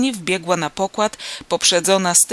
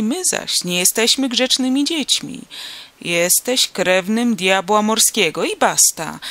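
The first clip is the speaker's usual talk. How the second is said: mocking old sailor; 2 semitones higher, 4 dB louder than usual. Sailor mocks narrator's proof.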